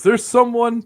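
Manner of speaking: high, loud mock announcer; hammed-up high-pitched introduction; Tony Khan. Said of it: "Tony Khan goes".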